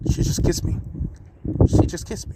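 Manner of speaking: breathless whisper, stunned; a hushed, awestruck whisper repeated; dazed inner whisper. Acted. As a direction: whisper it to yourself in disbelief. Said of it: "in his mind".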